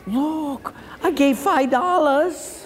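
high-pitched, drawn-out show-off voice; mock bragging. Preacher mimicking a giver posting on Facebook, mock bragging. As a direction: imitate someone proudly showing off a tiny gift.

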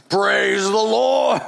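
slow, hammed-up churchy shout; mock shouted praise. Christians mimicked shouting praise.

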